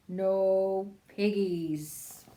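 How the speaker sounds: very slow, drawn-out cow voice. Acted. Disguised pig playing cow, very slow. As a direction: drag it out like a lazy cow.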